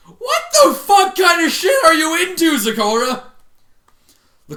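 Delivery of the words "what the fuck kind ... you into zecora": loud, high outraged yell; disgusted shout. Real, not acted. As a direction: scream at the character. Reader shouting at the story.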